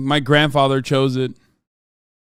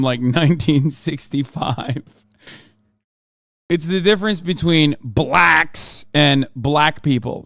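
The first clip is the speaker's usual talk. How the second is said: ordinary talk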